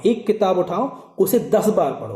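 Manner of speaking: "एक" drawn out slowly, each word spaced; slow, deliberate advice. Shown as a demonstration. Teacher repeating his advice slowly to board exam students, deliberate. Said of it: "हमेशा कहता हूँ".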